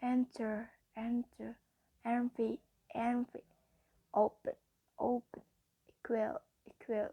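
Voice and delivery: EN-ter, EN-vy, O-pen, E-qual, second syllable weak; first-syllable stress. Shown as a demonstration. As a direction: stress the first syllable of Enter, envy, open, equal. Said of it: "first syllable is stressed".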